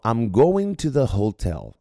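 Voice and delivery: emphatic demo. Shown as a demonstration. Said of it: "Se eu falo".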